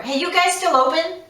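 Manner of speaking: hammed-up sloppy phone call; careless casual caller. Shown as a demonstration. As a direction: chirp it out like a clueless caller.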